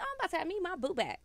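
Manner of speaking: bubbling with glee over getting her man back; giddy excitement. Retold or imitated. Telling friends about her ex calling, giddy and laughing. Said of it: "I'm all excited as shit".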